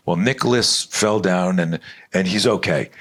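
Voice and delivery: lightly voiced nurse taking her time; mock school nurse. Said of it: "the nurse at the hospital".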